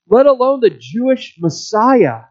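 ordinary delivery

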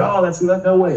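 hammed-up no way; retold disbelief. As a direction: act stunned at the coincidence. Learning friend got the gig.

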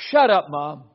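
loud, abrupt mock outburst; imitated child's outburst. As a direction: blurt it out like a defiant kid. Retold son snapping at his mother.

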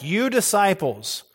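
"You" stressed, set against the crowds; emphatic you. Shown as a demonstration. Preacher contrasting disciples with crowds, stressing "You". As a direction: lean hard on "You". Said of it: "is emphatic".

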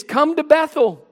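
high-pitched, mock-inviting scripture reading; sarcastic. Preacher reads God's sarcastic call to Israel's worshippers, sarcastic. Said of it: "there's sarcasm in chapter four".

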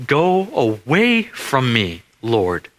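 slow, hushed plea from the knees; a lightly voiced broken plea; humble plea. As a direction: beg him slowly to go away. Peter falls at Jesus' feet.

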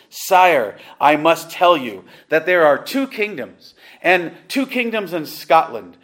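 forceful rebuke. Acted. Pastor rebuking King James in a quote.

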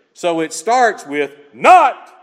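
slow, with a shouted not; stress on not. Shown as a demonstration. Preacher drilling the emphatic not, shouted slow. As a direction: call out not loud and slow. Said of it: "The not here is emphatic".

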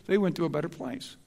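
quick, lightly mocking they went to a better place; mocking platitude. Preacher mimicking secular mourners, quick and mocking. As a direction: toss the cliché off glibly. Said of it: "but, oh, no".

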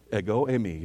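"Ego eimi" in Greek, EH-go AY-mee; Greek pronunciation. Shown as a demonstration. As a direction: repeat "Ego eimi" as a taught Greek phrase. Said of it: "Now you know Greek".

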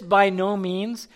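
"by no means" slow and loud; deliberate, forceful "by no means"; very emphatic. Shown as a demonstration. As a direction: lean firmly on "by no means". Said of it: "it's very emphatic".

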